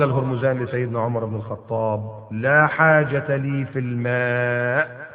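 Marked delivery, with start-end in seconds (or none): 2.3-5.1 slow, a hint of a calm cunning prisoner; sly captive. Hormuzan to Umar, cool and sly, slowly. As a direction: draw it out coolly.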